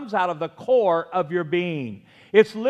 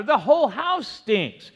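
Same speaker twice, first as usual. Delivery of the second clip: higher, slow mock holler; louder mock shout; 4 semitones higher than usual. Preacher playing cranky grandpa going through the house, mock shouting. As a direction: imitate a cranky man's holler, stretching the words. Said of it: "shouting louder".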